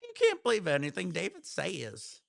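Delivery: a repeat leaning Southern accent. Shown as a demonstration. Repeating the line to show the Southern. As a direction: say it again with a Southern lilt. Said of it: "Out of the blue, I'm Southern".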